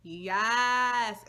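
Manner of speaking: high, loud excited yelp; excited yes. Retold or imitated. Hearing his height, she yelps with joy. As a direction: shout it out with delight. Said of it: "and I was like".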